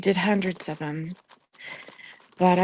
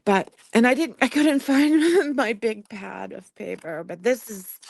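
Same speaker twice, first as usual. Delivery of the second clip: nervous laugh; 4 semitones higher than usual. Real, not acted. Fighting tears, laughing nervously.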